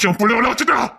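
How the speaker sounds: mock wounded father cry; hurt outcry. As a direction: raise the complaint in a pained cry. Second take higher.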